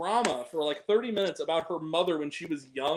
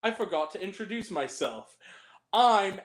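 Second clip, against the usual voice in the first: imitating Alfie; 3 semitones higher than usual. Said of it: "and he goes".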